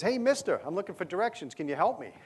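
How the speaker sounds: high, eager hail to a stranger on a porch; city visitor calling out. Retold or imitated. Lost Bostonian calls to a porch sitter, high and eager. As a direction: call up to him, a touch pushy and high.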